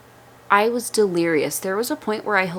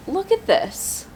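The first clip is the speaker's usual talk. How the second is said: higher, slow, in awe; amazed; 10 semitones higher, slower than usual. Real, not acted. Mom showing her postpartum belly, amazed. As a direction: marvel at it slowly. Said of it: "I'm amazed".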